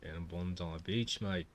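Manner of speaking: a go at an Aussie accent; Australian accent. Shown as a demonstration. Streamer trying out accents for viewers, Australian accent. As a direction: put on a light Australian twang.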